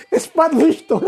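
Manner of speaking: laughing while saying it; mock the priest through a laugh. Real, not acted. Debate, mocking the priest. (rindo enquanto fala)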